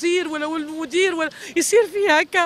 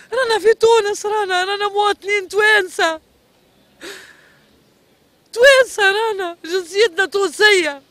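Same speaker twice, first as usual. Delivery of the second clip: louder, anguished plea; desperate outcry; 5 dB louder than usual. Real, not acted. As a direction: cry out that we are Tunisians too. Desperate mother appeals to authorities. (صرخة يائسة)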